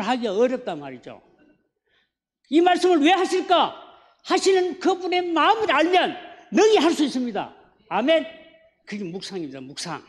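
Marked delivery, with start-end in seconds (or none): 2.5-8.2 raised, forceful preacher's call; preaching climax. Acted. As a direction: drive the question home to the congregation. (힘 있게 외치는 설교 목소리)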